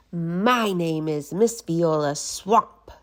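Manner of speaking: slow, menacing scratchy witch; a hint of a sinister teacher. Miss Swamp introduces herself, slow and menacing. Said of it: "said the lady in a scratchy voice".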